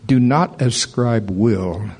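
slow, deliberate, lightly voiced divine decree; God speaking formally. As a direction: weigh each word, a touch of solemn authority. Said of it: "somebody way more educated than me that talks like that".

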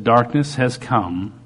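slow, solemn word with long pauses; quoting the Lord. Retold or imitated. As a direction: deliver it slowly, phrase by phrase. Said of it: "this is what He said".

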